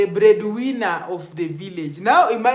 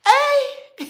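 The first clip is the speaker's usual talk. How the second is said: laughing exclamation; 4 dB louder than usual. Real, not acted. Laughing after mock song.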